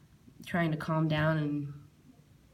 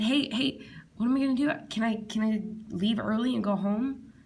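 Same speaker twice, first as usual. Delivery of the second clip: frightened plea; 3 semitones higher than usual. Retold or imitated. Begging coworkers to go home early, high and frightened. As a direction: plead to be let off work.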